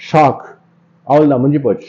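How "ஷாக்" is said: ஷாக் in one puff of air; single breath. Shown as a demonstration. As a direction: say ஷாக் as one short syllable. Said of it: "ஒரு முறை தான் காத்து வெளியே போவோம்".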